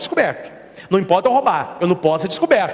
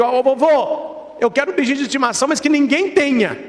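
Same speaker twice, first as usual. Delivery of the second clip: put-on child voice; 6 semitones higher than usual. Boy asks grandpa.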